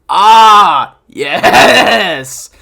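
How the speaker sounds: loud, drawn-out hammed-up realization; mock girl voice. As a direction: belt it out as a girl suddenly getting it. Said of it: "Girl two".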